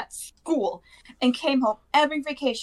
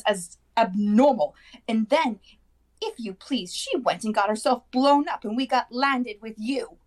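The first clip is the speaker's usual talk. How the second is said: high-pitched resentful rant, piling up the grievances; 4 semitones higher than usual. A narrator's reading. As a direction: rant on as the bitter aunt. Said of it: "then went ranting on".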